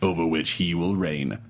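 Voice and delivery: low, dramatic trailer narration with a few laughing breaks; movie trailer voice. Shown as a demonstration. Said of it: "should I read it in movie trailer voice?".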